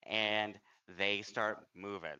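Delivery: slow, measured scene setting; game master's narration. Acted. Game master tells players rats crawl over them, slow narration. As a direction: draw the creeping menace out slowly.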